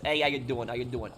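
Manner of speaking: imitating a New York kid's accent; lightly put-on New York accent, greeting repeated; thick New York accent. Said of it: "He talked like this".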